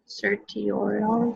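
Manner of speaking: "certiorari" sounded out with a hard T and a questioning tone; halting attempt. Real, not acted. Student reading an unfamiliar legal term aloud, halting attempt. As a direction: try "certiorari" uncertainly, as cer-tee-or-ar. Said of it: "you will hear people pronounce that word".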